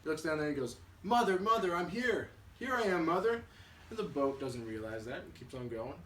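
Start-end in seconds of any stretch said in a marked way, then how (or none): 1.0-3.4 put-on high, loud baby-bird call; storyteller's excited bird shouting for mother. Bird calls down to boat.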